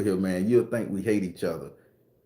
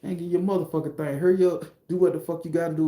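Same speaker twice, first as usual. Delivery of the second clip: fast, higher, pushy gangster talk; rushed street talk; 5 semitones higher, faster than usual. Shown as a demonstration. Waving guns at each other, in fast street talk. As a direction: hurry him along. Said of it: "That's how we dialect here".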